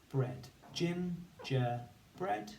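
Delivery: gingerbread drawn out slowly, rising at the end; slow, rising phonics blend. Shown as a demonstration. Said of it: "we're gonna say the sounds and write the word".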